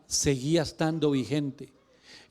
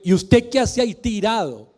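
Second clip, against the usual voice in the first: louder, brisk scolding "qué hace"; stern rebuke; 4 semitones higher, 3 dB louder than usual. Pretend. God rebuking Joshua lying on the floor, stern and brisk. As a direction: scold him to get up off the floor. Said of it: "imagino al Señor diciéndole".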